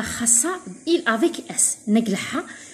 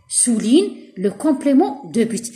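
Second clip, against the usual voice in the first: even slower, calmer repeat of the instruction; patient slow repetition; much slower than usual. Shown as a demonstration. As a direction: say it again slowly, falling at the end. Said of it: "teacher repeats instruction".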